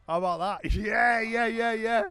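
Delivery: giggling loud and high. Real, not acted. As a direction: cackle through the yeahs. Laughing at his own comeback.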